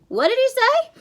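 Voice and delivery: put-on loud, high, childlike groggy question; half-asleep groan. A narrator's reading. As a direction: groan it as if just woken. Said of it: "Tyson groaned, still half asleep".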